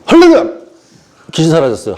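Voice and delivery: hammed-up revival shout; mock faith healer. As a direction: burst out like a parody miracle worker. Parody of Methodist miracle healer.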